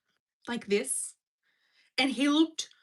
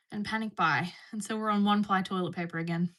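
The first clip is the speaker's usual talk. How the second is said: out of breath. Real, not acted. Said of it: "Talking that much just made me out of breath".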